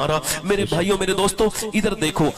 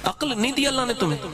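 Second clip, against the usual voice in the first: fast, higher, laughing rebuke; quick amused scolding; 9 semitones higher, faster than usual. Real, not acted. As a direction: tease the crowd while laughing. Scolding crowd through laughter.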